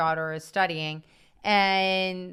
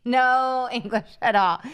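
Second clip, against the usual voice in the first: slow, laughing and louder; laughing emphasis; 4 semitones higher, 4 dB louder than usual. Real, not acted. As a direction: laugh through the punchline. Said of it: "Salamanca, no English".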